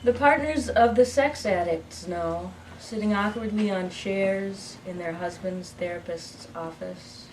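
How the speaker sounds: measured narrative verse with line pauses; poem reading. Acted. Poet reading What Then Is Love, measured recital. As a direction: read it as a poem to a live audience. Reads her poem aloud.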